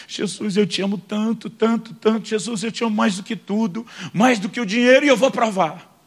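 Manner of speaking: tearful prayer. Retold or imitated. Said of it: "eu ouço ele fazendo a mesma oração".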